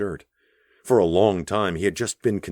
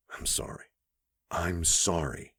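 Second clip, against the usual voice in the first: whisper; 7 dB quieter than usual. A narrator's reading. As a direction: breathe the apology. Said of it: "she whispered".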